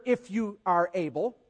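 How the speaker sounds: a touch of mock sarcasm. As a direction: dare him, dryly. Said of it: "little sarcasm here".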